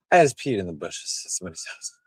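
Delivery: slightly slurred tipsy speech. Real, not acted. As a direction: talk like you've had a few. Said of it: "I told you I was drunk".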